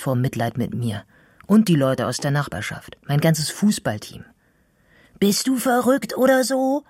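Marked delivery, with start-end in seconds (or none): 5.2-6.8 high-pitched shout of outrage; indignant yell. A narrator's reading. Girl shouting at a boy she doesn't know, indignant yell. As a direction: yell it, pitch leaping right up. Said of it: "jemanden anzuschreien".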